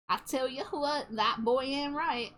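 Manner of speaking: Hank Hill. Acted. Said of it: "That's not what Hank Hill sounds like".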